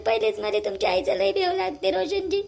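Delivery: tearful, pleading complaint with a sob in it; crying. Acted. Wife tearfully telling husband about mother-in-law. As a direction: cry as you tell him she hit you. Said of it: "रडू नको शीतल".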